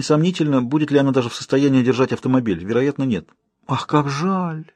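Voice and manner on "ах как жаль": slow, drawn-out higher exclamation of mock pity; exclaiming. A narrator's reading. Alraune feigning pity for the princess, slow drawn-out exclamation. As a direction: stretch the sigh of false regret. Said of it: "воскликнула Аль-Рауны".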